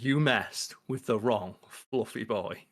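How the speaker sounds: slow, deliberate warning, lightly acted; quoted threat, each word weighed; mild menacing threat. Acting out Holt's angry threat.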